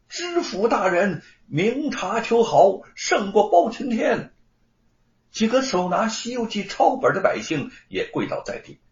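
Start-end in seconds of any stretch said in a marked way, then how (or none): 0.1-4.3 higher, stretched cry of acclaim; calling out. A narrator's reading. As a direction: hail the magistrate, a mild acted shout. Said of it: "大声地喊". (拉长声音高喊)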